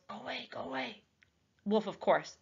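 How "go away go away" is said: stiff, soft, higher go away; stilted voice. Acted. Boy hushing the wolf away in a stilted voice. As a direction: hush the wolf off stiffly, trying not to be noticed. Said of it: "he said in a stilted voice".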